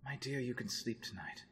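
calm her toward sleep; gentle reassurance. Acted. Reassuring the sick fiancée at night.

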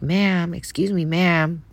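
mild mock yell. Man calling to a crying woman walking away, mild retold yell. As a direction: call after someone, without really yelling. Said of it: "he starts yelling at me".

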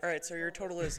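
breathy drive-thru speaker. Retold or imitated. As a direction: murmur it like a drive-thru worker. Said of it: "breathy with it".

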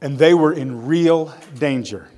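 expressive, measured story narration; dramatic public Bible reading; scripture reading. A narrator's reading. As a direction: read the Bible story aloud with deliberate emphasis. Reads Bible story aloud.

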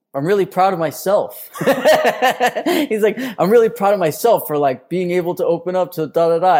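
quoting him while cracking up with laughter; can barely get the words out for laughing; laughing through quote. Retold or imitated. Telling cohost about the crying contestant, laughing. Retelling contestant's proud speech.

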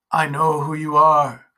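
tender words with something strange beneath; gently. Acted. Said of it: "he said gently".

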